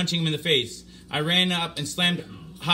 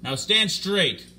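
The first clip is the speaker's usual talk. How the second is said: slow stern order; 4 semitones higher, much slower than usual. Acted. Playing judge, ordering prisoner.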